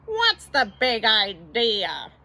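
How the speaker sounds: drawn-out, deliberate question; slowly. A narrator's reading. Bert confronts Ernie over the trick, slow and deliberate. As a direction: stretch each word in reproach. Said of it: "said Bert slowly".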